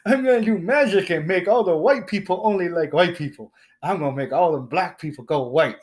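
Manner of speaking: a hint of a gloating cartoon villain; lightly voiced wizard gloating over his spell; mock grand wizard. Mocking the grand wizard to the listener, a light villain voice.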